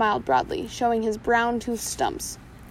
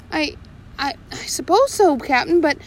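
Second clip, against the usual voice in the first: frightened, near tears; 5 semitones higher, 6 dB louder than usual. Acted.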